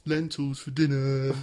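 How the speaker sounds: slow Brummie impression; mock Brummie, stretched out; Brummie accent. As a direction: put on a drawling Brummie voice. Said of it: "why is she Brummy?".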